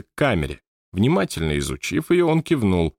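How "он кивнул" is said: usual speaking voice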